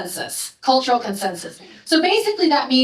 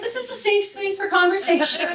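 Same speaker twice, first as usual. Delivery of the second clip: mock reassuring; 8 semitones higher, 3 dB quieter than usual. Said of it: "And I was like".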